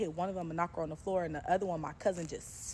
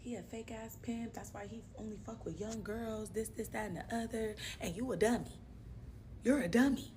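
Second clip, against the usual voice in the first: scolding cousins; 4 semitones higher, 6 dB quieter than usual. Retold or imitated. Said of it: "My brother and my cousin like".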